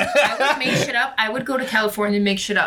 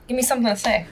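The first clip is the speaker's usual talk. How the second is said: put-on Australian accent; 3 semitones higher, much faster than usual. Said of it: "I can do it with this".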